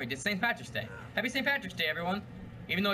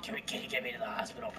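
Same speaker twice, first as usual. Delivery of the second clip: weak, lower, gurgling wounded plea; gargling blood voice; 6 semitones lower, 6 dB quieter than usual. Acted. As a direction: gurgle it out like a dying man. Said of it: "what he sounds like in the end of the movie".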